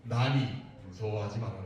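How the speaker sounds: low, measured voice of a holy figure; voice of Jesus. Acted. Jesus to the frightened disciples from across the water, low voice of Jesus. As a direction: speak low and steady to calm frightened followers. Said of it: "이렇게 얘기하신 거예요".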